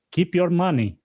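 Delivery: a hint of a Russian accent, lightly put on. Nigerian president brushing off Biden's threat, in a light mock Russian accent. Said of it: "I don't know why he speaks Russian".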